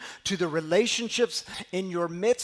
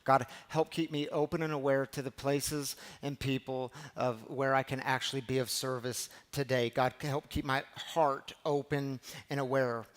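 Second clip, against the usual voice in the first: soft prayer; 3 semitones lower, 5 dB quieter than usual. Pretend. Prayer repeated, slowed at end.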